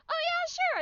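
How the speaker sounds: high, breezy agreement; casual yes. Retold or imitated. Vlogger accepting the corgi offer, high and breezy. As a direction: toss off an easy yes.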